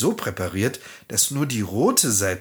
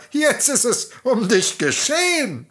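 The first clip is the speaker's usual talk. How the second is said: high, louder witch voice; gloating hag; 12 semitones higher, 4 dB louder than usual. Acted. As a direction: seal her fate with relish.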